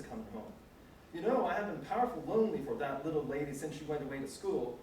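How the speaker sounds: put-on light, amateur try at William's dialect accent; reading William's dialect accent without acting it; a hint of an old Southern dialect accent; old servant's dialect accent. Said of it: "Excuse my accent".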